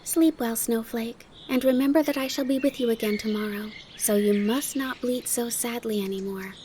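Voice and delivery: mildly tender, lilting reassurance; gentle, soothing. Acted. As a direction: soothe a little goat tenderly. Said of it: "saying in a gentle, soothing voice".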